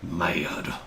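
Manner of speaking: low, slow mock-angry warning; mock menace. Host warns listeners about his temper, mock menace. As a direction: drag it out like a pretend threat.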